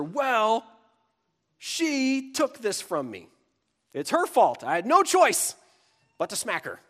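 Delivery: put-on high, loud child protesting blame; whining kid's excuse. Kid excusing hitting a sister to a parent, indignant. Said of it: "If you have kids, you hear this".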